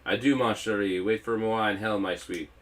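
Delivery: put-on French-accented villain taunting; hammy French farewell; pompous French villain. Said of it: "he shouts".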